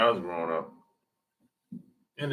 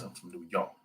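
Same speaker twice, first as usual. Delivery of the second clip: muttered New York; 6 semitones lower, 14 dB quieter, faster than usual. Retold or imitated. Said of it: "Everybody else".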